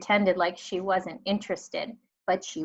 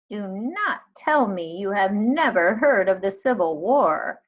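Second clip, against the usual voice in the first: loud, scandalized disbelief; aghast that a child never heard of it; shocked disbelief; 6 dB louder than usual. Acted. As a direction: librarian scandalized, almost fainting. Miss Franny shocked at ignorance.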